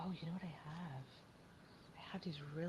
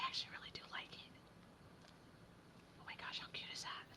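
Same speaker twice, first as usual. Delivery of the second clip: soft breathy whisper over the craft table; 8 dB quieter, faster than usual. Real, not acted. Crafter whispering to viewers over her button project. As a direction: hush it like a secret while gluing buttons. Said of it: "I don't know why I'm whispering".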